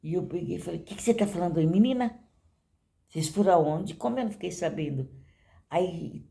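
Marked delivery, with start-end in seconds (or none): 0.8-5.1 retold scolding, sharp rise on "menina"; upset mother. Mother confronts daughter about where she went, upset. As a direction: imitate a mother demanding answers. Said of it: "aí fiquei nervosa".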